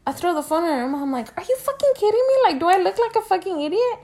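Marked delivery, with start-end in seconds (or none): 1.4-4.0 retold furious yelling.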